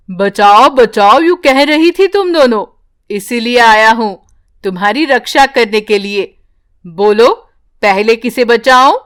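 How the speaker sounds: a talking tree offering rescue; magic tree voice. Acted. (हल्की गहरी जादुई पेड़ की आवाज़)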